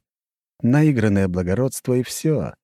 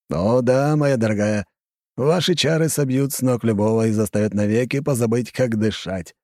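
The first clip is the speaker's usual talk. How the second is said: playful agreement; 3 semitones higher than usual. Acted. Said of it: "игриво подтвердил Грифич".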